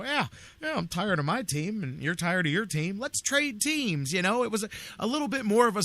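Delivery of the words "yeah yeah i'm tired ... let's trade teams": casual team owner. Retold or imitated. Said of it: "two owners of baseball teams could just go".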